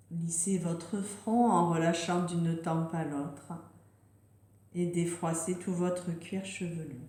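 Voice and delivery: unhurried meditation voice with long pauses; guided relaxation. Real, not acted. Yoga teacher settling listeners into yoga nidra, gentle guided relaxation. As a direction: guide them gently into rest, leaving space between phrases.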